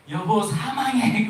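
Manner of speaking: high, loud, slow "여보, 사망해"; shocking message. Retold or imitated. Pastor voicing the shocking text to the congregation, high, loud and slow. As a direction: land the shock of the typo.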